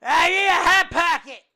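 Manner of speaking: high, loud, whiny mock of a desperate fan; basement dweller. Friend mocking a desperate fan, loud whiny squeal.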